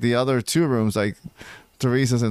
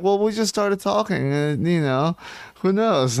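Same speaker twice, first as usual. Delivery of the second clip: airy dismissive; 6 semitones higher than usual. Retold or imitated. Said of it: "They're like".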